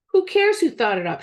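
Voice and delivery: high, loud impatient shout; exasperated shout. A narrator's reading. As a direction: shout down the excuse. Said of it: "shouted Tom".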